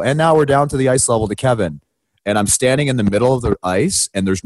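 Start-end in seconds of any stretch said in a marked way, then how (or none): 0.0-1.8 lightly voiced broadcast hand-off; higher-pitched mock TV host toss; Ron MacLean. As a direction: imitate a live TV throw. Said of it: "Ron MacLean go".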